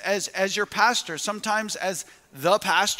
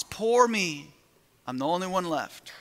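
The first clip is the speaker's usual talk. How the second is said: mild self-pity. Retold or imitated. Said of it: "same response".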